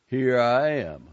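loud, slow and proud; boy proudly answering the guard; eager boy. A narrator's reading. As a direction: announce yourself eagerly. Buddy voiced.

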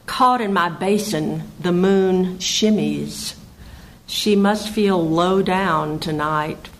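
measured verse recital; poetry reading. Acted. Poet reads a wild moon poem to listeners, poetry reading. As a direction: read it as a poem, pausing at line breaks.

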